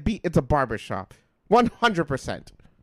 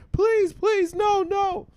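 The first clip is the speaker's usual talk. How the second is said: very high mock-desperate kid voice; hammed-up, high-pitched begging; begging child; 4 dB louder, much slower than usual. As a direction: imitate a four-year-old pleading with his dad. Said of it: "He's begging his dad".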